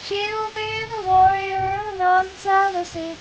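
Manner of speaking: high bright streamer voice; bubbly anime girl greeting; cute anime streamer. Acted.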